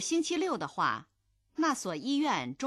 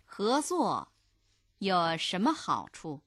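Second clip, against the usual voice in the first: measured model reading, pausing after 合作; phrase by phrase. Shown as a demonstration. Language teacher modelling the dialogue for learners, phrase by phrase. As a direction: split the question into two careful phrases.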